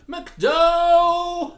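high, loud drawn-out cry; mock shout. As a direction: belt out the nickname, stretching the last vowel. Mock outburst at nickname.

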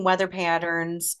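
slight unplanned Boston accent; accidental accent. Real, not acted. Podcaster explaining Franklin's study of storms, slight accidental Boston accent. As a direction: let a touch of Boston accent slip into "weather patterns". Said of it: "I don't know why I said it like that".

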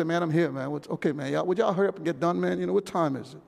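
low, casual grumbling churchgoer; grudging impatience. Acted. Churchgoer impatient for service end.

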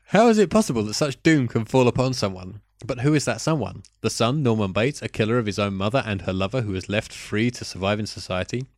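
reading a review in a put-on French accent. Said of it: "warm up the French accent again".

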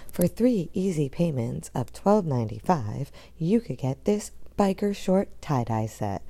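home shopping host. Pretend. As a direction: pitch it like a shopping channel host. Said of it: "I feel like I'm on Q V C".

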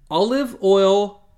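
computer voice. Acted. Blaine's odd remark.

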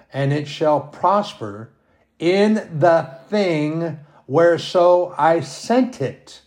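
slow, solemn reading of the verse; solemn bible reading; scripture reading. Acted. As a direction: read it like holy writ, measured. Reads scripture aloud.

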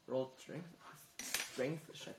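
talking through a mouthful of cake; mouth full. Real, not acted. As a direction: say it around a bite of cake. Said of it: "Talking with cake in my mouth".

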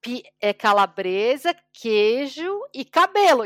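slow, careful ordering like a beginner; slow learner's Portuguese. Retold or imitated. Scottish friend ordering pizza, slow careful beginner Portuguese. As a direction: order slowly, picking words carefully. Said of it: "Daí ele".

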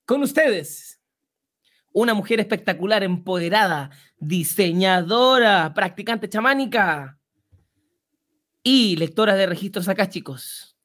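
showman host presenting a star; grand entrance announcement. Pretend. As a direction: stretch out the final name grandly. Host introduces the boss. (gran anuncio de entrada, alargando Alicia Bonilla)

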